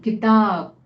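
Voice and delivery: "किताब" with the weight on ताब; light कि, strong ताब in "किताब"; stress on second syllable. Shown as a demonstration. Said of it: "मैंने ताब पर ज्यादा जोर दिया".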